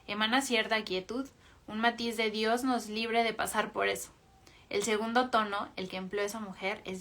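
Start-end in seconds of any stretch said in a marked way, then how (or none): 1.6-4.1 humble tone. Shown as a demonstration. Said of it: "El primer tono es de humildad".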